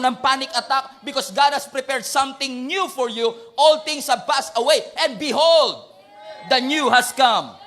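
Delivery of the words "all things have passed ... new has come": booming, slow and loud at the end; shouted proclamation. Real, not acted. Preacher shouting scripture to the congregation, booming. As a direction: thunder it out to the church.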